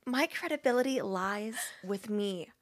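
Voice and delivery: measured recital, lingering on phrase ends; Julia Cameron. Acted. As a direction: read it in character with weighty pauses. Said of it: "read it like I think it's Julia Cameron".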